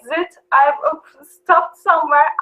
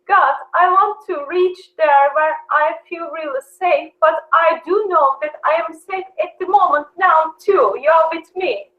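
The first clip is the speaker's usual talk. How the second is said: retold prayer.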